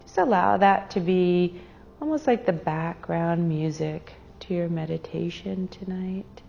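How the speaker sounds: unhurried meditation guide with long pauses; guided meditation. Real, not acted. Meditation leader guiding a group to their breath, calm and unhurried. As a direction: lead them gently inward, pausing between phrases.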